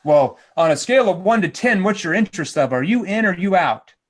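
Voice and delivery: pushy mock sales challenge; hammed-up hard-sell posturing. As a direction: press them for an answer, emphatic. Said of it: "I'm not trying to posture them".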